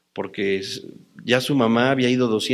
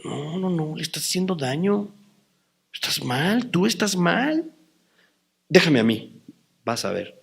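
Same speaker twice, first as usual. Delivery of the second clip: calming the mother; 3 semitones higher, 5 dB quieter than usual. Retold or imitated. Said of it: "y yo decía".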